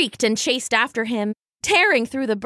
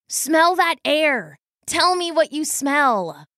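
put-on slow, raised young-brother voice; gentle coaxing; 5 semitones higher, slower than usual. A narrator's reading. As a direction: coax her slowly, pitched a little up. Brother coaxes sister to enjoy outdoors.

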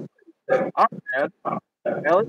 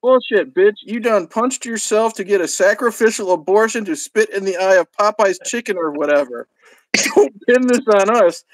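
enraged yell; 3 semitones higher than usual. Acted. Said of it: "Whitey yelled enraged".

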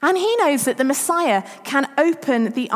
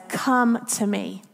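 slow, lower, unhurried invitation; a touch of tender authority; calm and gentle; 4 semitones lower, slower than usual. Retold or imitated. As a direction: gently call him over. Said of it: "and he says".

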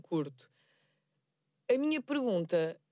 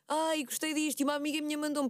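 mock gushing; 4 semitones higher than usual. Shown as a demonstration. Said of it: "Não ficas ali".

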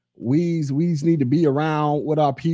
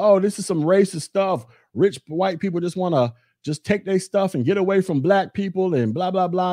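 higher, whiny mock outrage; mocking complaint; 5 semitones higher than usual. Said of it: "everybody's up in arms talking about".

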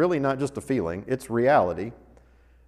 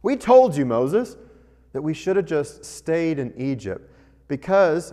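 sarcastic quote. Retold or imitated. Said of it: "There's a second sarcastic statement".

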